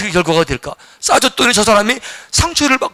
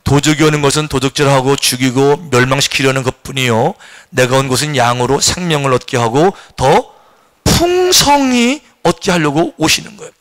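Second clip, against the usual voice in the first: scripture reading; 6 semitones lower than usual. Shown as a demonstration. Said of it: "다 같이 읽어보십시다".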